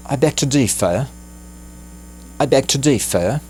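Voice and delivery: courteous, lightly lifted at the end; polite phrase. Shown as a demonstration. Teacher modelling a polite disagreement, courteous rise. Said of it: "uma maneira realmente bastante educada".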